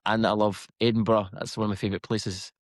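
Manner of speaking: put-on Scottish accent. Shown as a demonstration. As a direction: chat away in a Scots accent. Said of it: "He's such a good accent".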